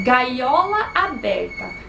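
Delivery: drawn-out, careful reading of a verse; slow reading. Shown as a demonstration. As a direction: read the verse out slowly. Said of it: "Diz assim, né".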